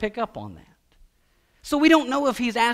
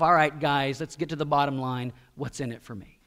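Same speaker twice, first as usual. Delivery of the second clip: investor thinking; 4 semitones lower than usual. Acted. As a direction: mull it over as a hard-nosed investor. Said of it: "he thinks to himself".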